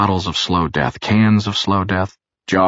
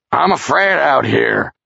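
higher, slow frightened call; fearful yell; 8 semitones higher, 3 dB louder, slower than usual. A narrator's reading. Charles yells through the bathroom door, afraid and higher. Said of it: "he was evidently yelling loud".

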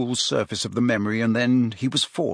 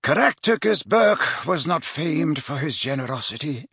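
lightly voiced mentor, higher-pitched; Dumbledore; 5 semitones higher than usual. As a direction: remark it as a measured learned mentor. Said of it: "said Dumbledore".

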